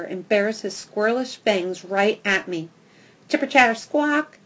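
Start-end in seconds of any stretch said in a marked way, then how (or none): 3.3-4.4 high, loud chattering squeal; squirrel screech. A narrator's reading. Squirrel on the fence screeching at the dog, high squeal. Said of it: "he screeches".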